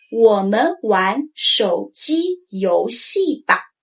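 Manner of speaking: 我们玩手机游戏吧 slowly; drawn-out, tones clear; slow model sentence. Shown as a demonstration. Teacher modeling the example, slow. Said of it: "For instance".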